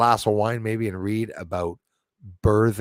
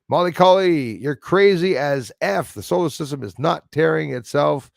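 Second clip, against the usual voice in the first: higher, slightly louder put-on commenter voice; comment-reader's voice; 4 semitones higher, 6 dB louder than usual. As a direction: voice an indignant commenter, pitched up. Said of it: "tries to put a voice to a comment".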